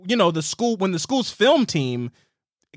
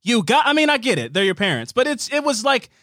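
mock self-righteous complaint, slightly raised pitch; sanctimonious imitation; 4 semitones higher than usual. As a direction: lightly imitate a disapproving prude.

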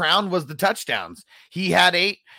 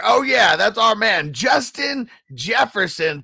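hyped announcer; 4 semitones higher, slower than usual. Acted. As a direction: announce him like a star.

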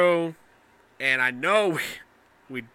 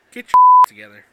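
laughing; 9 semitones higher, 19 dB louder, much faster than usual. Real, not acted. Teasing co-host, laughing loudly.

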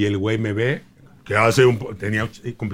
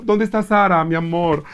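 lightly higher doting aunt; aunt character voice; 4 semitones higher than usual. Retold or imitated. Comedian playing the aunt greeting the bride, doting. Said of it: "como la tía".

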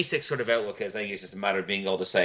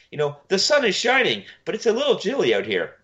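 mock Trudeau; 10 semitones higher than usual. Trudeau quoted, mock complaint.

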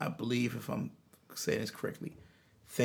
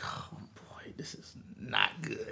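hushed worry; 5 dB quieter than usual. Retold or imitated. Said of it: "And I'm like".

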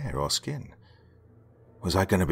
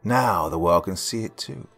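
sinister pronouncement. Acted. Villain pronouncing her fate.

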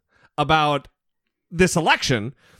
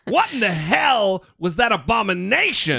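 higher-pitched, incredulous Brit's reaction; hammed-up disbelief, hitting the key words; mock appalled outrage; 4 semitones higher than usual. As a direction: act out a listener aghast at what he heard. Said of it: "I bet you Jonathan right now ... thinking".

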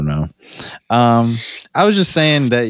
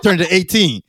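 street hustler pitch, higher and laughing; downtown hustler voice; 5 semitones higher than usual. Acted. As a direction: sell it like a corner hustler. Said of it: "random downtown hustler voice".

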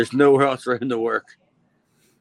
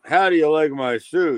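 lightly mocked fake European accent; hint of a badly done European accent; Jason's accent; 3 semitones higher than usual. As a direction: put on a mild, dubious European accent. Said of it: "I don't know what that accent that he has is".

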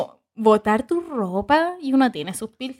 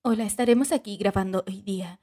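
dubbing voice; 2 semitones lower than usual. Retold or imitated. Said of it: "otra entonación al final".

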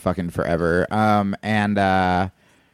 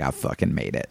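breathy whisper of triumph; 9 semitones lower, 6 dB quieter than usual. Retold or imitated. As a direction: whisper it like a secret win. Comic's early triumph.

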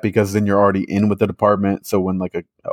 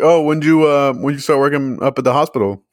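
curious question; 5 semitones higher than usual. Retold or imitated. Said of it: "it's like".

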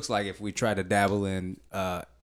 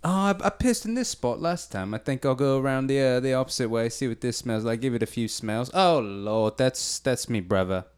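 dog's inner voice. Acted. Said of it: "give me a story of what he'd be saying".

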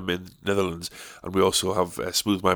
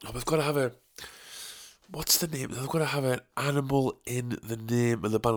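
mock dim contestant; 2 semitones higher, 10 dB quieter than usual. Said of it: "I'm like".

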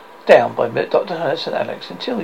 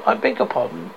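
mildly puzzled, higher pitched; 6 semitones higher than usual. A narrator's reading. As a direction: ask with a touch of puzzlement. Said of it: "Alex puzzled".

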